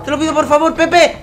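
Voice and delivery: loud wailing no, dragged out slowly; anguished plea. Real, not acted. Fan pleading the pack for Pepe, loud slow wail. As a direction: beg as if it hurts.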